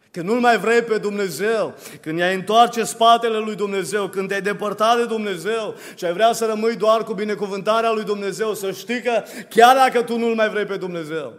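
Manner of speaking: insistent, rising sermon delivery; impassioned preaching. Real, not acted. Preacher appeals to those who turned from God, impassioned preaching. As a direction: build the appeal clause by clause. Builds appeal about God's persistence.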